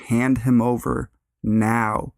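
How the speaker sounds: father firmly demanding his son back. Retold or imitated. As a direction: lay down the law to the stranger. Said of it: "I ask firmly".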